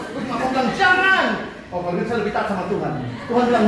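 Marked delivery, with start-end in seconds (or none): 0.8-1.2 much higher, louder sharp refusal; short mock-stern ban. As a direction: snap out a mother's no. Mother forbids.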